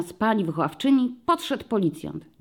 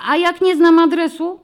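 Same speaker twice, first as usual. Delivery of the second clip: put-on high, loud child's question; boy blurting; 11 semitones higher, 9 dB louder than usual. A narrator's reading. Boy in front row asks the policeman: high eager child. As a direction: blurt it out like a worried kid. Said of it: "wyrwało się chłopcu".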